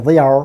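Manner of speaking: THEY ARE contracted to a British gliding 'they're'; British strong form. Shown as a demonstration. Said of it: "British pronunciation হচ্ছে গিয়া". ('they are' British জোরালো রূপে, এক শব্দে)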